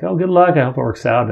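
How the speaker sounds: bright high good luck; cheery send-off. Retold or imitated. Store staff wishing the dad luck, cheerful and high. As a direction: chirp it as they walk away. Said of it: "they kinda walk off like".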